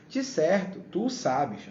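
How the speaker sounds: drawn-out mock concession, lightly sarcastic; ironic. Preacher reading God's verse to Job, ironic. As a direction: grant it with understated irony. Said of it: "exatamente uma entonação que alguém irônico diria".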